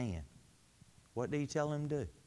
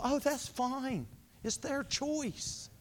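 higher, slow and softening, careless shrug; mock dismissive world; 6 semitones higher, 3 dB quieter, slower than usual. Preacher voicing the world shrugging off sin, slow and dismissive. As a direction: brush it off lazily, as if nothing matters. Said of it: "The world's going".

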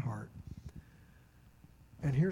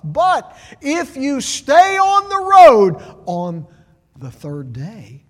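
a triumphant cry that sinks to a hush; starts loud and high, ends in a whisper; soaring shout falling to a whisper; 7 semitones higher, 15 dB louder, slower than usual. Acted. Voicing Jesus' promise.

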